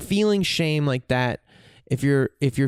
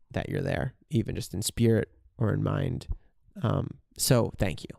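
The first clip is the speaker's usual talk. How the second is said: sincere thanks; 5 semitones lower than usual. Shown as a demonstration. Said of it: "try saying".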